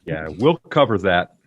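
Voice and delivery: breathy whispered aside. Real, not acted. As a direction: whisper it under your breath. Whispered take of repeated line.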